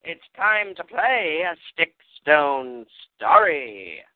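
slow, booming title announcer; fighting game announcer. Acted. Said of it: "do your announcer voice on the title".

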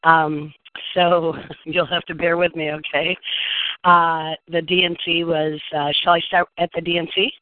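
hoarse from days of talking; voice giving out. Real, not acted. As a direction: push words out with a tired voice. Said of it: "My voice is almost gone".

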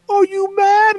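put-on high, loud taunting kid voice; a toddler teasing his mom on the plane, high and loud; mocking taunt. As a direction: needle her like a smug kid. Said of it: "he was like".

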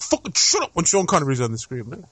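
dad snapping at a noisy kid, mock. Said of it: "you're like".

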